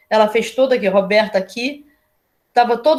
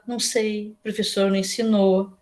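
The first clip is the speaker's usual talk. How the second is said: mild quiet voice; 5 dB quieter than usual. Retold or imitated. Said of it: "Já a Adriana falava baixo".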